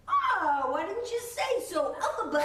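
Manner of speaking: high, loud laughing delight; chuckling wizard. Retold or imitated. Wizard recognizes Elphaba, laughing. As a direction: warm up with a laugh. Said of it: "he's like".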